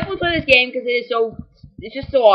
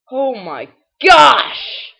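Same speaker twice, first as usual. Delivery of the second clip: drawn-out shout; 3 dB louder, much slower than usual. Real, not acted. Embarrassed at losing.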